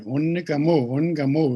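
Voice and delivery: Ungamu twice, firm and falling; repeating the word. Shown as a demonstration. Teacher repeating Ungamu as the singer's word. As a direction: model Ungamu for the listeners again. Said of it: "we say".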